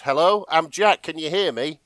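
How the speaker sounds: mock-naive caller on a radio; Jack. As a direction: call out, unsure anyone hears. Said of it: "Finally, Jack an-, answers".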